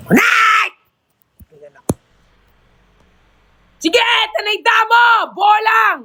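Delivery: high yelled commands at the dog; yelling at the dog. Retold or imitated. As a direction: shout the dog's name sharply. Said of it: "Ganyan ako kay Night". (pasigaw na utos sa aso)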